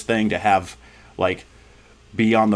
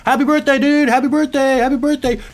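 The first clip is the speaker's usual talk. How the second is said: much higher, louder cheery greetings; cheery classmates; 5 dB louder than usual. Retold or imitated. Classmates greeting the grieving boy at school, bright and high. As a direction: chirp it out like oblivious upbeat classmates. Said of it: "people are, like, saying".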